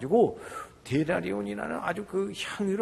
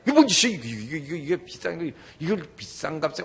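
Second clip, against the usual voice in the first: acted indignant disciples; 7 dB louder than usual. 제자들이 옆에 있다가.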